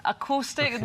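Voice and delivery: attempted Scottish accent on "Acoustic"; "Acoustic" in a weak Scottish accent; bad Scottish accent. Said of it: "my Scottish accent bad".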